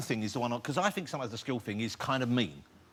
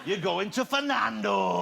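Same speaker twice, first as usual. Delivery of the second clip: game show host; 5 semitones higher, slower than usual. Pretend.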